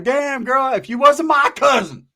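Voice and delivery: loud, high, drawn-out catcall; hammed-up leering exclamation. Man reacting to his cousin in the car, hammed-up leer. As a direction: exclaim it big, pitch jumping up.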